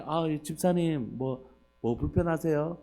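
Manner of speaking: slow, attentive pastoral concern; mock-gentle voice, taken slowly. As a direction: imitate a pastor kindly checking on a church member. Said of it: "집사님들한테는 그렇게 부드럽게 하면서".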